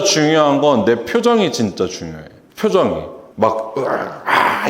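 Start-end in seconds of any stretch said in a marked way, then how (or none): 3.4-4.7 slow, breathy groan of fatigue; weary groan. Shown as a demonstration. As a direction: let out a tired, unwilling groan. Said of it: "이런 표정으로는".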